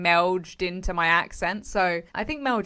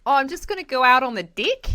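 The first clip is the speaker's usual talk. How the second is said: put-on New Zealand accent; 5 semitones higher than usual. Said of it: "friend of ours from New Zealand was like".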